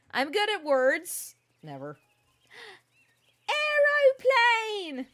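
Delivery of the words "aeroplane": delighted gasp, drawn out; gasp, then call it out slowly; surprised gasp. Real, not acted. Gasps at plane.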